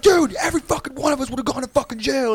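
high, loud retold yell; yelling at him. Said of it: "we're all, like, yelling at him".

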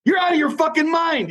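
high, incredulous imitation of his friend; shocked friend. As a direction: squeal the disbelief well up high. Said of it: "He goes".

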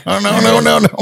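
mimicking her panic. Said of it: "She said".

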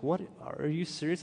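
mildly incredulous question; retold disbelief. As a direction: replay a first, restrained double take. Reacting to the surrogacy offer.

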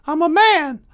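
high, loud protest; squeaky, offended retort; mock indignant. Indignant reply to being called boy.

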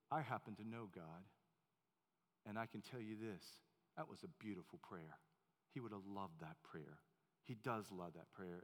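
put-on hushed kindly old gentleman; gentle old man. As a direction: reassure a crying child. Old man comforts boy.

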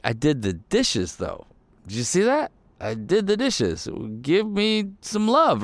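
hammed-up whine for credit after chores; mock whiny spouse. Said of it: "We're like".

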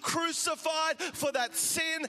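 loud, slow spiritual rebuke; rebuking the spirit. Acted. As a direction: command the spirit to back off, loudly.

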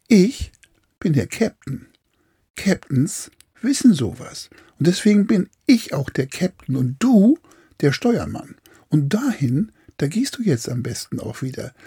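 smug captain, pulling rank; bossy captain voice. Acted. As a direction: lecture the helmsman from above. Captain weist Steuermann zurecht. (herrischer, selbstgefälliger Kapitän)

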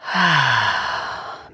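long, falling audible exhale; long sigh. Shown as a demonstration. Meditation guide settling listeners in, long relaxing sigh. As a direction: let a full breath out slowly.

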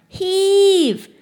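a huge, high bellow of effort; shouted heave. A narrator's reading. Narrator shouting to the crowd tipping the car, a full bellow.

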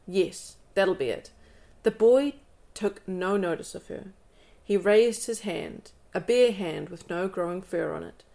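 calm, even read-aloud voice; story narration. Acted. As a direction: read the book passage to your listener. Reads the book aloud.

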